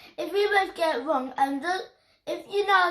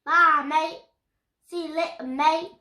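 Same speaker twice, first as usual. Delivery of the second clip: put-on child's simple go at Cockney; Cockney accent; 4 dB louder than usual. Shown as a demonstration. Child practising for mum, tentative Cockney accent. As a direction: try out matey Cockney greetings. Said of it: "Just try".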